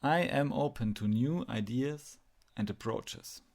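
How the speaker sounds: clearly stated affirmation; leading affirmation. Shown as a demonstration. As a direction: state it for others to repeat. Repeat the following affirmations to yourself.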